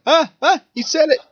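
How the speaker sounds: high, excited squeal of recognition; squealing excitement. Retold or imitated. Fan thrilled the name was said, high squeal. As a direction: gasp it out, thrilled he said it. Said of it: "it's more like a".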